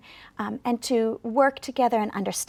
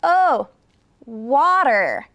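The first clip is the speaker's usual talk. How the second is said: sudden realization; 5 dB louder, much slower than usual. Retold or imitated. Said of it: "And they said".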